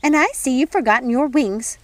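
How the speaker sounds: a busy fairy godmother fussing over tea; fussy fairy godmother. Acted.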